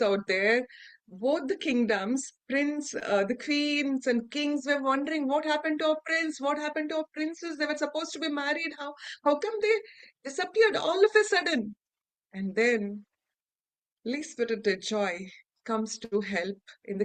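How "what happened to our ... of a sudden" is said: fast, anxious, rising to a cry; worried royals. Acted. Kings and queens fretting over the missing couple, anxious. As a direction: hurry the questions, build to alarm.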